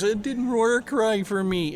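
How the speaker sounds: slow, whiny imitation of John; drawn-out mock complaint; mimicking John. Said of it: "John as the doorbell locker guy".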